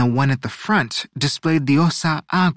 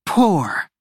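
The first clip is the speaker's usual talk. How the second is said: high, drawn-out disdain; haughty correction; 6 semitones higher than usual. A narrator's reading. Auristela corrects Osella while studying fingernails, haughty disdain. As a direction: correct with lofty, pitched-up scorn. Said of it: "Auristela corrected".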